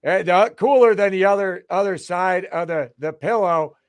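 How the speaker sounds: amped-up pitch for a pillow seller; mock pitchman. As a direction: hype it like a late-night ad guy. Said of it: "I know what he wants".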